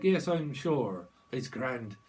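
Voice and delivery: slow mock Irish reply; Irish accent. Answering as someone from Ireland, slow Irish accent. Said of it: "Someone could be from Ireland".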